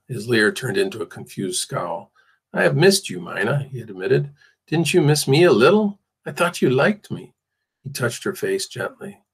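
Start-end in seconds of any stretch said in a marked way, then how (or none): 2.5-7.3 higher, pleading plaintive voice; wheedle, hurt that she left him. A narrator's reading. Captor pleading with the girl he holds, plaintive. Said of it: "the plaintive tone in his voice".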